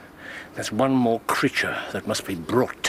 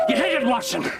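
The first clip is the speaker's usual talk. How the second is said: excited shout; 12 semitones higher, faster than usual. Acted.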